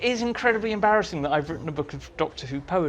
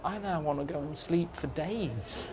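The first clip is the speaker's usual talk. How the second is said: retold exhausted sigh; 10 dB quieter than usual. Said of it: "very tired".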